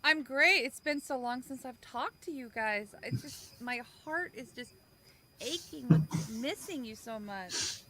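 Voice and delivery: dripping with sarcasm; mock heartfelt, clearly insincere; sarcastic.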